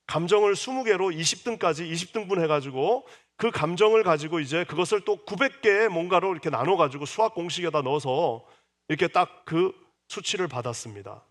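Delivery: normal talking voice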